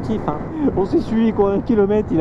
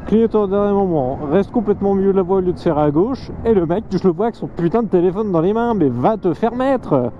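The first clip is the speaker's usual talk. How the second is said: heated, raised voice at a bad driver; angry rant; 5 semitones higher than usual. Real, not acted. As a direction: vent at the careless driver.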